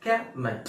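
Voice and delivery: "कमेंट" said the American way; American pronunciation. Shown as a demonstration. Teacher showing learners the American word, American pronunciation. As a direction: say "कमेंट" as an American would, open vowels. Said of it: "American English में".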